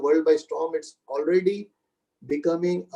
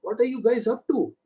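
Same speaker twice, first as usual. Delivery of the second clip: father confronting the store manager, a retold angry complaint in a higher voice; imitating an irritated father; 3 semitones higher than usual. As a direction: play the upset father demanding answers, pitched up. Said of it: "he started yelling at the store manager".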